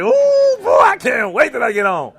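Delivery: put-on squealing, giddy kid voice, high on the ooh; excited kid. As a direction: play an overexcited kid who can't wait to try it. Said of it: "I know your brains are like this".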